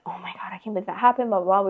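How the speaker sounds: lightly voiced, fast, breathless gushing friend; mocking the friend. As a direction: rattle it off as a dismissive mock of her friend. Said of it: "She was like".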